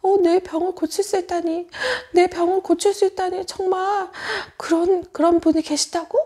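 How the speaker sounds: a touch of storybook amazement; amazed. Acted. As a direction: wonder aloud in disbelief. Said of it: "바디메어는 깜짝 놀랐어요".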